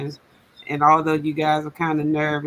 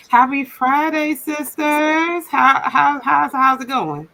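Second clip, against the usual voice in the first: excited stuttering; 9 semitones higher, 6 dB louder, slower than usual. Real, not acted. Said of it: "I'm stuttering already".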